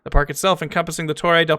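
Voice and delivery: lightly lilting narrator read; documentary read-aloud. Acted. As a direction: read the entry out to the audience. Reads game encyclopedia entry aloud.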